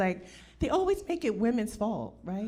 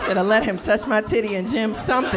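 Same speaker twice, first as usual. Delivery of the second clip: mock regret; 5 dB louder than usual. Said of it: "You be like".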